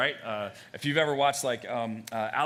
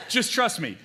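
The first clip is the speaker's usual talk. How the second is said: chuckling through the words; laughing; 6 semitones higher than usual. Real, not acted. Preacher laughing at his own quip, chuckling.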